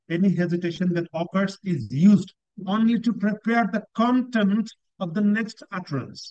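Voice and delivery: reads each English phrase slowly and deliberately; teacher dictating slowly; slow descriptor reading. Shown as a demonstration. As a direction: spell out the criteria word by word for students. Rereads descriptor to explain.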